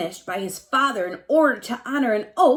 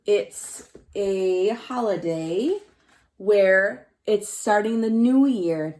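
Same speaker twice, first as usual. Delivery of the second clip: slow recap; slower than usual. Shown as a demonstration. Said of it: "what have we learned so far".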